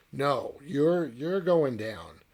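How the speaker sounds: a blunt, loud you're going down. Retold or imitated. Spiders correct the man.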